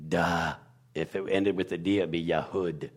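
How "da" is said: "Da" said with an open "ah" after the D; sounding out D. Shown as a demonstration. Explaining Yehuda's ending, sounds out "Da". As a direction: sound the letter out as "Da". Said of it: "The last two letters are a D and an H".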